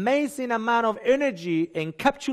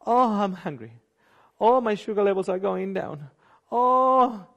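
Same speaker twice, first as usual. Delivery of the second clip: panicking body; 3 semitones higher than usual. Retold or imitated. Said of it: "your body starts panicking".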